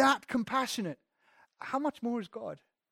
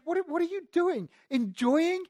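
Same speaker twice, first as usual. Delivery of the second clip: scandalised Pharisee, louder and higher each time; indignant grumbling; 6 semitones higher, 7 dB louder than usual. Retold or imitated. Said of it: "They're saying".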